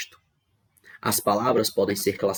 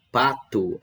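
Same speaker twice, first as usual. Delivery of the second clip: "Pato" with a strong first syllable "Pa"; stress on PA; 3 semitones higher than usual. Shown as a demonstration. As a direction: hit the "Pa" of "Pato". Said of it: "a sílaba tônica é o pá". ("Pato" com força no "Pa")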